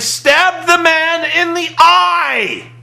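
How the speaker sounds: high, slow, stretched-out disbelief; incredulous outburst. Real, not acted. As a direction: blurt it out in amazed outrage. Outraged retelling of stabbing.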